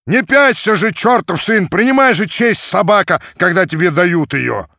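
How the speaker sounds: high, loud cursing yell; rough angry shouting. A narrator's reading. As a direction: shove him on with insults. Cossacks dragging Kerdyaga, cursing.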